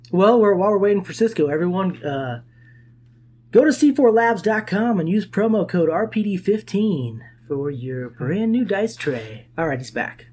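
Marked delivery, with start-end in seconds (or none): 3.5-9.5 smooth radio ad read. Acted. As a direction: read it like a radio sponsor spot. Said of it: "That was actually good radio voice".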